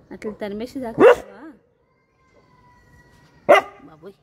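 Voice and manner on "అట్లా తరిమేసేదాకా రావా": louder, "రావా" shouted with a rising end. Real, not acted. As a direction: yell it at the monkeys, rising on "రావా". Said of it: "ఏం గొంతురా?". ("రావా" పైకి లేచే గట్టి అరుపు)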